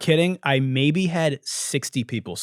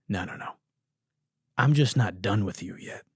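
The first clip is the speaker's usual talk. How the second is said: sinister calm reply; 5 semitones lower than usual. Retold or imitated. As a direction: purr it like a smug villain. Voices him smiling, menacing.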